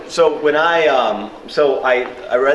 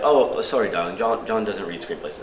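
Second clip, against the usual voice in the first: dismissive receptionist in fake English accent; bad English accent. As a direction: brush the caller off in amateurish English tones. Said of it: "do a bad English accent".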